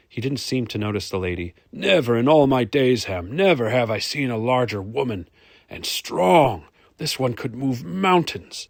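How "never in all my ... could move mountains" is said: big, raised bellow of amazement. A narrator's reading. Brune tells Ham of the huge woman, amazed bellow. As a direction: bellow it with drawn-out awe. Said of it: "he bellowed".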